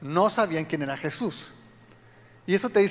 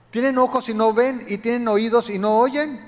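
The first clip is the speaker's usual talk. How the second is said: louder, higher stern questioning; rebuking Jesus; 4 semitones higher, 5 dB louder than usual. Retold or imitated. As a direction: press the disciples hard. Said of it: "Jesús hace una serie de preguntas".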